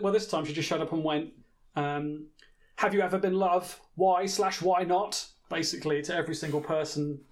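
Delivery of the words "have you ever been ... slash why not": robotic interviewer. Retold or imitated. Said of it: "Quite robotic".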